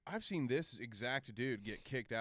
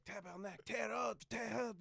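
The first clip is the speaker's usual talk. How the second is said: high-pitched imitation of grandmother; 8 semitones higher, 6 dB quieter than usual. Grandmother pointing at paper map, high imitated voice. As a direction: mimic grandma insisting, pitched way up. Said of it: "and she's like".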